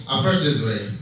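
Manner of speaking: hushed-down confidential tone; confiding. Acted. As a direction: lean into a secret, voice dropped. Barman about to share a secret.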